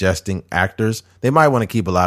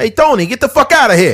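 put-on Italian mobster voice, higher and louder; 6 dB louder than usual. Joking about being cast in a movie as some Italian mobster: put-on Italian mobster voice. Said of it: "me playing, like, some Italian mobster".

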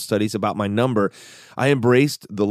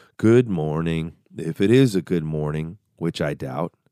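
low-pitched, utterly gloomy donkey voice; 5 semitones lower than usual. Admitting he sometimes acts gloomy, the speaker mimics a greeting: gloomy Eeyore impression. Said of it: "in that gloomy voice".

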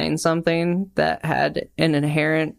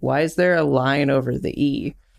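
ordinary delivery

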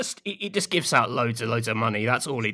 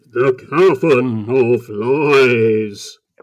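very loud cavernous echoey boom, "lies" drawn out; 9 dB louder than usual. Speaker names a place into a mug, in an echoey voice. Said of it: "make my voice sound more echoey".

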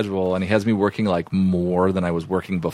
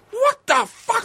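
very high, shrieking, sudden screaming outburst. Recounting a schedule dispute, the speaker retells a man instantly screaming at them. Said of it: "instantly screaming".

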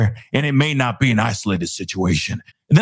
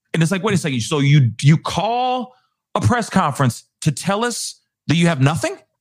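plain

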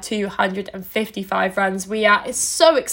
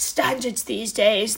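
put-on ordinary bloke voice; 4 dB quieter than usual. Bit about untucked cricket shirts: average cricket club bloke impression. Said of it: "That was my impression of the average bloke at your local cricket club".

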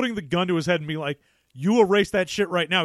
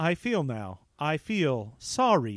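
low, soft, mechanical, emotionless robot voice; 4 semitones lower, 5 dB quieter than usual. Describing a robot character, the speaker voices it in an inflectionless robot voice. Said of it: "this is an inflectionless robot".

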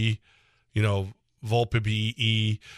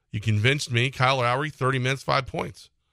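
usual speaking voice

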